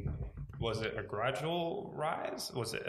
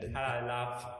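Essex accent. Shown as a demonstration. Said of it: "demonstration of the Essex accent".

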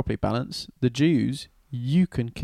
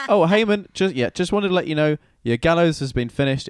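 breezy reminder; 4 semitones higher than usual. Acted. Eunuch casually announces Haman's gallows.

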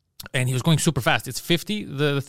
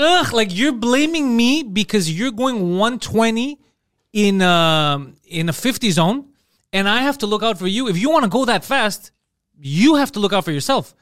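higher-pitched, drawn-out disgusted retort; 5 semitones higher, 4 dB louder, slower than usual. Retold or imitated. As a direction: lecture the reckless biker, dripping with disgust. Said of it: "I got so disgusted".

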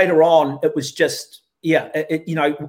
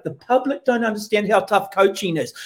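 mock pundit line. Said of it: "let's give Tana a little cuddle".

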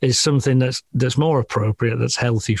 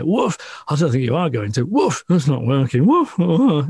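desperate dog; 3 semitones higher than usual. Retold or imitated. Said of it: "You can hear a different sound".

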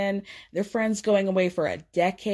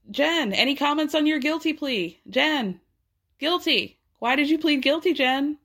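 reporters yelling; 6 semitones higher than usual. Retold or imitated. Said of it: "people yelling".

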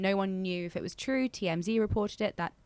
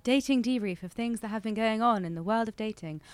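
sultry voice. Acted. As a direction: purr it like a perfume ad. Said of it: "In a very sultry voice".

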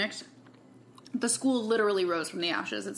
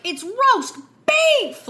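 high, loud, slow excited shriek; excited squeal; 13 semitones higher, 8 dB louder, much slower than usual. Retold or imitated. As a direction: squeal it like a thrilled kid. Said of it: "she's so excited about it".

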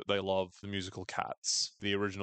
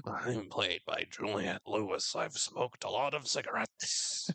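mock deadpan impression; slower than usual. Misty pretending to be Jackie, slow dark deadpan. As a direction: put on a dull, smoky, deadpan voice. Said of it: "her impersonating her voice".

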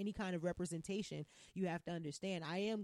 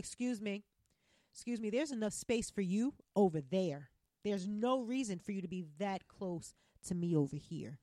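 standing up for yourself, firm; firm assertive. Retold or imitated. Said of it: "Now I'll be like".

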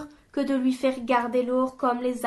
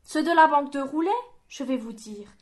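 surprised. A narrator's reading. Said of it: "demanda Monge, étonné".

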